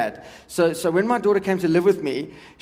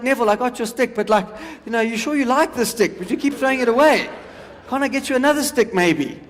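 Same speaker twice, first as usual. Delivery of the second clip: higher-pitched doubtful dog voice; tiring dog; 4 semitones higher than usual. Acted. Comedian as the dog on the fourth throw, doubtful. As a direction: gently question your owner as a weary dog. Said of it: "he's coming back a bit slower".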